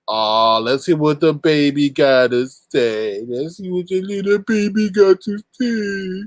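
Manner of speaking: mocking taunt. Mocking a crybaby caller.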